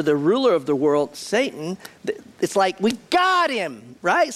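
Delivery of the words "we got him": higher, slow smug triumph; gloating. Retold or imitated. The world rejoicing at the arrest, smug gloat. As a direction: savour the win like a villain.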